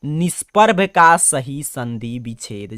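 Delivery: प्रश्न पढ़ते हुए "निष्पर्भ का सही संधि विच्छेद" को धीरे, हर शब्द अलग-अलग बोलें; slow exam-question reading. Shown as a demonstration. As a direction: dictate it slowly to the class, word by word. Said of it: "प्रश्न अपने से कह रहा है". (छात्रों के लिए प्रश्न धीरे-धीरे पढ़कर सुनाना)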